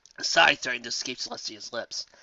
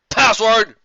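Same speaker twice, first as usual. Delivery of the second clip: higher, loud demand; guard demanding; 10 semitones higher, 14 dB louder than usual. Acted. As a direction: challenge them at the door.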